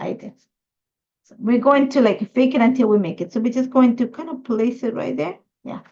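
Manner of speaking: ordinary talk, nothing marked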